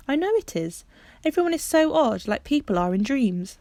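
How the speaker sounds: she can feel it coming, let it lift; rising excitement; excited certainty. Acted. Bobby's heart quickens.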